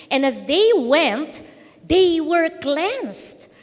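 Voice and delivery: slow, drawn-out Bible reading; deliberate preacher's storytelling; scripture reading. Real, not acted. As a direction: read the verse aloud, stretching key phrases. Reads scripture aloud to audience.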